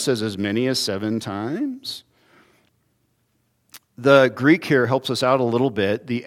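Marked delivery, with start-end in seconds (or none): 0.2-2.0 "As many as seven times" said softer, lower, with a magnanimous rise on "times"; generous offer. Retold or imitated. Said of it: "feeling generous".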